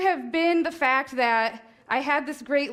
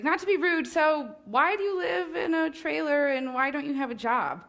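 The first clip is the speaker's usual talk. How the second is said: polite questioning; 4 semitones higher than usual. Retold or imitated. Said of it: "'cause he's super polite".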